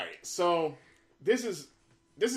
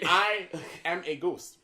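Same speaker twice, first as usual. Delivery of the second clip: slow, higher ghostly moan with a laugh; playing the late Nintendo boss as a ghost; mock ghost voice; 4 semitones higher, 5 dB louder, slower than usual. Mock ghost voice to his friends, laughing. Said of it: "you're so terrible".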